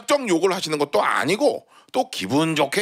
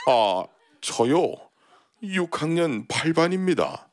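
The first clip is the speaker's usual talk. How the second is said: put-on meek old man; slower than usual. Old man answers meekly.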